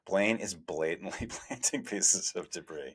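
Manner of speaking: retelling his own accusation with a laugh; half-laughing at how blunt he was; laughing self-quote. Retold or imitated. Journalist mocking his old accusation, laughing through it. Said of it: "I basically said".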